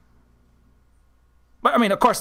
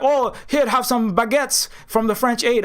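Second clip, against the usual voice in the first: higher, slow, put-on voice handing out baguettes; sugary mock offer, pitched up; mock French aid giver; 6 semitones higher, slower than usual. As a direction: play a condescending donor, slowly. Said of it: "the French are like".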